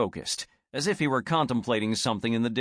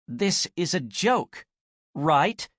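higher, slower, lifting on right; rising into a real question; 5 semitones higher, slower than usual. Acted. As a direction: let the firm statement turn into a real question. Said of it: "Her voice rose with the last word".

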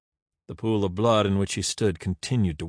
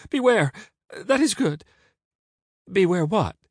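high, loud, eager cry; cried out; 10 semitones higher, 5 dB louder than usual. A narrator's reading. Caesar seizing on the beggar's warning, high cry. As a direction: seize on it in a high voice. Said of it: "cried Caesar".

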